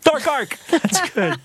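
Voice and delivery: high-pitched, gleeful echo of the answer; delighted confirmation. Real, not acted. Quiz host confirms answer with glee.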